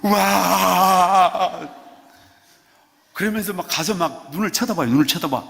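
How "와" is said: wild wow. Shown as a demonstration. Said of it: "난리 부르스를 쳐야 돼".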